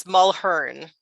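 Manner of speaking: Mulhern slowly, in two syllables; correct surname pronunciation. Shown as a demonstration. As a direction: say Mulhern as mul-HERN, the A silent. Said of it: "the A is silent".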